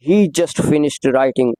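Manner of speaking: slow, careful model sentence; slow demo read. Shown as a demonstration. Teacher reading a model sentence slowly. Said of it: "number three".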